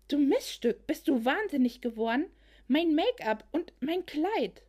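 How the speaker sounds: shrill, furious shriek. Acted. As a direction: shriek it out in outrage. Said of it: "sprang kreischend auf".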